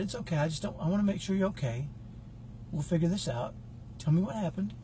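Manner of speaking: soft, quiet reassurance; calm the frightened kids down; hushed, soothing, a little quick in the middle; reassuring. Retold or imitated. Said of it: "I was really calm and cool".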